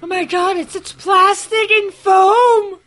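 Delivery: slow, high laughing outburst; laughing exclaim. Real, not acted. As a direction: crack up while exclaiming. Laughing at cheap props.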